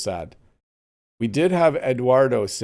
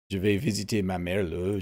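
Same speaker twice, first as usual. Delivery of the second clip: Quebec French "le" ending; 3 semitones lower than usual. Shown as a demonstration. Streamer showing chat the Quebec sentence ending, a light Quebec French demo. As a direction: show the Quebecois habit of tacking "le" onto "Je vais visiter ma mère le". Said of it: "They say le a lot at the end of their sentences".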